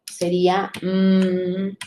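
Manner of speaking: slow, drawn-out "mm" hummed alone; splitting mi into its sounds. Shown as a demonstration. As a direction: stretch the "mm" with closed lips. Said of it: "De mi".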